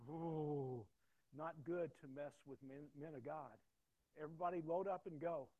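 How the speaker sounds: big drawn-out warning into a shouted order; loud calling-off. Retold or imitated. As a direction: warn them loudly, then send everybody off. Gang leader calls everyone off.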